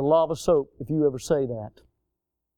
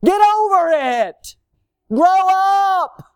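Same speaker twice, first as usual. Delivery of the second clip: high, loud, slow scolding shout; shouting rebuke; 12 semitones higher, 6 dB louder, much slower than usual. Real, not acted. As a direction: tell immature parents to grow up. Preacher scolds immature adults.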